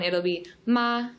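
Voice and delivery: ma held high and level; ma on one steady high pitch; first tone ma. Shown as a demonstration. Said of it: "for the first tone".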